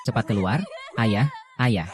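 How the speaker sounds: sobbing shout, voice breaking; crying out for father. Acted. Daughter crying out to her dying father, sobbing shout. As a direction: cry out for him through tears.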